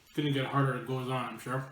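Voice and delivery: talking while chewing chips; crunching through the words; messy loud eating. Real, not acted. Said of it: "I'm gonna be talking with my mouth full".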